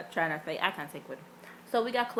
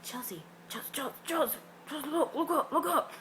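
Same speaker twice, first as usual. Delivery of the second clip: higher, laughing nudge; giggly urgent call; 7 semitones higher than usual. Retold or imitated. Nudging Chelsea to look up at a performer, giggling. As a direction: giggle and urge her to look.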